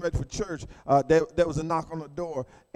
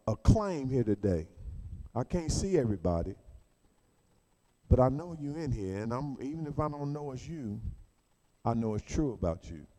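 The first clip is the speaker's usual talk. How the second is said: much softer and lower, confiding; quiet intimate preaching; 6 semitones lower, 6 dB quieter than usual. Acted. Preacher speaking softly to the struggling listener. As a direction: draw them in close, almost private.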